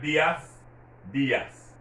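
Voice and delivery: dias with the stress on its first syllable, DEE-as. Shown as a demonstration. Teacher showing learners the accented letter, stress on the I in dias. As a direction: lean on the i in "dias". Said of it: "stressing that I".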